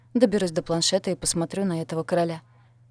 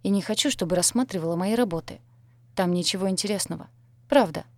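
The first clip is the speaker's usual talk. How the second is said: ordinary delivery, nothing marked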